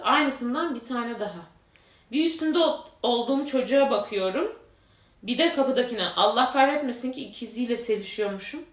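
steady reading-aloud voice; reading a confession post aloud to friends, steady narration; story reading. Acted. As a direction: read the post out evenly like a narrator.

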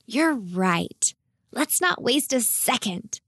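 lightly acted eagerness, without shouting; keen to get going; gleeful. A narrator's reading. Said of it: "shouted Naomi with glee".

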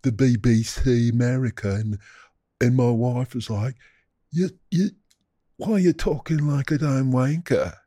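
put-on British wanker accent; mock British accent. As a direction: talk casually in a hammed-up British accent.

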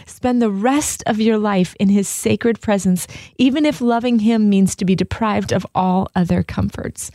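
earnest reading with a mild plea; pleading letter reading. Acted. Monk writing to a dear friend, mildly pleading. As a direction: read the letter as a gentle, urgent appeal. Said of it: "you can just hear in Brother Lawrence's voice that he's, like, pleading".

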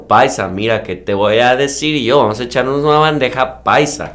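put-on lightly done paisa Colombian accent. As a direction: talk like a Medellín local. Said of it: "el colombiano".

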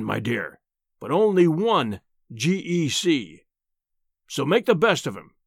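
lightly voiced self-satisfied professor; pompous professor. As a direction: grandly placate your wife, lightly in character.

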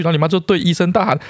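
mock frantic mom. Mother shouting to doctor, mocked.

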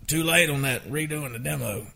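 a hint of the co-writer's voice; imitating Craig Wiseman. Songwriter imitates co-writer with news about the demo, lightly put-on voice. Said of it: "I'm doing a Craig Wise imitation".

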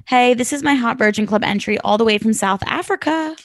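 reading a listener's story aloud; steady read of the letter. Acted. Host reads the listener's letter to co-hosts, steady reading.

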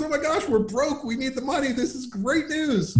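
high mock wife, dry sarcasm; sarcastic wife. Wife voiced sarcastically in story.

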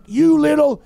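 imitating a father's loud, high yell; retold yelling. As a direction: yell it like a dad losing it. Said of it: "he's yelling".

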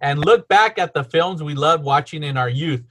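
measured blurb read; reading aloud. Real, not acted. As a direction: read the show description to listeners. Reads the podcast description.

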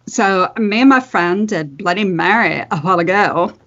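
lightly voiced valley girl, a hint of Megan reading her post; teen girl character. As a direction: read it as a breezy teen, barely changed. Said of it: "I'm gonna try to do it in character".

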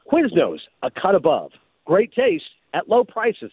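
big, projected commercial announcer tagline; projecting announcer read. Shown as a demonstration. First audition take for Quiznos, projected announcer read. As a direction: punch the tagline like a sportscaster. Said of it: "You keep doing it too much like an announcer. You're projecting too much".

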